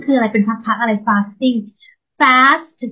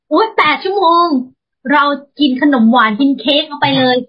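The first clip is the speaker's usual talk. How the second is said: higher-pitched, gleeful mock exclamation; mock excited dieter; 4 semitones higher than usual. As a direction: play someone giddy at a license to binge. Mimics an over-eager dieter's reasoning.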